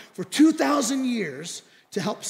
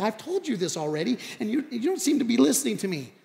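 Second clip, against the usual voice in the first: mildly exasperated, higher as it goes; 4 semitones higher than usual. Retold or imitated. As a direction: complain that nobody is listening. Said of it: "the man kinda gets exasperated".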